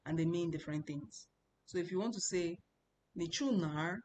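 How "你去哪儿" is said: 哪儿 stressed in a dipping third tone. Shown as a demonstration. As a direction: lean on 哪儿, letting the tone dip. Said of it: "have to stress the third tone".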